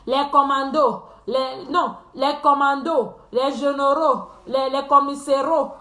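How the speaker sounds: mocking list, "commandos", "généraux" ending in a stressed O; teasing imitation, final syllables turned to O; mocked mispronunciation. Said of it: "Et ça, toujours un O à la fin".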